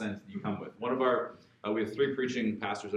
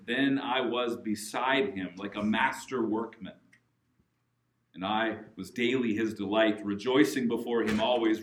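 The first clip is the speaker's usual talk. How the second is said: scripture reading; 3 dB louder than usual. Real, not acted. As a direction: proclaim the verses in measured phrases. Reads scripture aloud to congregation.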